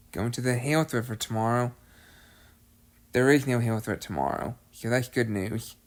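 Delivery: short of breath, asthma acting up. Real, not acted. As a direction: talk while winded from asthma. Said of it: "Sorry if I sound a little out of breath".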